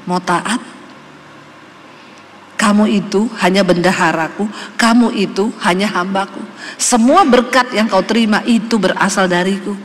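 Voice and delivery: suara Tuhan yang tenang, lebih rendah dan lebih pelan. Retold or imitated. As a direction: menirukan Tuhan yang menegur dengan lembut namun tegas. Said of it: "Tuhan ngomong". (Tuhan berbicara kepada hamba-Nya, suara rendah dan tenang)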